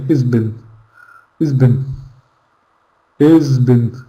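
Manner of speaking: "Is been" with the H gone, merged together; two small merged words, "Is been", no H; reduced fast-speech form. Shown as a demonstration. Teacher repeating the reduced form for learners, "Is been" without H. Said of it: "when we say it like that".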